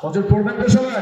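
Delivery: high shouted question to the crowd; loud rallying question; calling out. Real, not acted. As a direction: call out to the whole hall. Calling out to audience.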